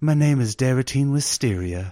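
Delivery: sultry female character voice. Arriving guest introduces herself to the one greeting her: sultry Daratine Wisteria voice. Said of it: "a sultry voice she has".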